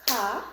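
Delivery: "Capacity" in separate beats, ca-pa-ci-ty; syllable by syllable. Shown as a demonstration. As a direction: clap out "Capacity" with a gap after each syllable. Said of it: "Let's start with the syllables".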